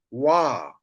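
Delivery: "wa" with a w, long open a; pronounced wa. Shown as a demonstration. Teacher gives the two-syllable reading, long "wa". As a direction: say a drawn-out falling "wa". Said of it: "you pronounce it as".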